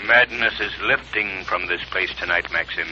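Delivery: a low, quiet, bodiless voice; haunt him from the shadows; a hint of a disembodied voice taunting Maxim; eerie unseen voice. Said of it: "what is that voice?".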